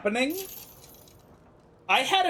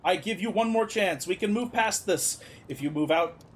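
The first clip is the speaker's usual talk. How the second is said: indignant ruler, hardening into a warning; lightly acted leader laying down an ultimatum. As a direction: scorn their demands, then threaten war. Voices a ruler refusing demands.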